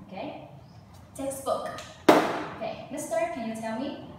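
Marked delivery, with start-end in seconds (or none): 1.2-1.7 Textbook with the first syllable stressed. Shown as a demonstration. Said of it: "You start at the first one".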